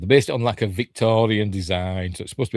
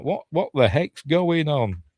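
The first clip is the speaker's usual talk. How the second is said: mock bewilderment; 6 semitones higher than usual. Voices characters' bewilderment, slow, high.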